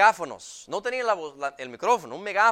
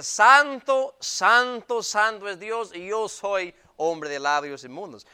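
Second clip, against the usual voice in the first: Isaiah proclaiming, settling back down; awed proclamation; 2 semitones higher, 4 dB louder than usual. Retold or imitated. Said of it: "Decía". (proclamación que se apaga)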